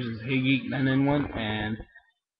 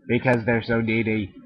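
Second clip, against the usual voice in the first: lighter Caboose voice. Acted. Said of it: "hold back some of the deepness".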